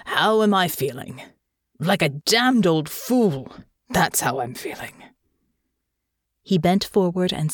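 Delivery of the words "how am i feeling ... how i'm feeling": bitter self-mockery. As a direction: spit out the self-reproach. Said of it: "sharp, bitter laugh".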